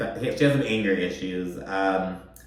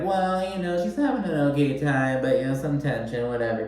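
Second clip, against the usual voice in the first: higher, hesitant, careful imitation; tiptoeing around it; 3 semitones higher than usual. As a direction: tread lightly, playing it down. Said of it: "kind of tiptoeing around it".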